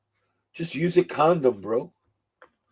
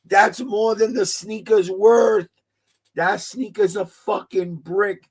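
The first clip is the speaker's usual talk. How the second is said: mock outraged yell; 5 semitones higher, slower than usual. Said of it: "That boy said".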